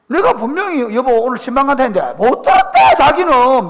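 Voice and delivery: venting that his wife never heard him; exasperated complaint. Real, not acted. Pastor to the congregation, laughing in exasperation.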